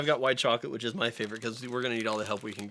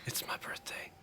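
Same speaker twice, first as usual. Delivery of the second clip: bad acting; 14 dB quieter than usual. Imitating the flat line.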